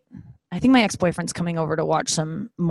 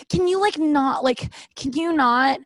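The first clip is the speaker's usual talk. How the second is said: mock annoyed; 8 semitones higher, slower than usual. Imagined annoyed reaction.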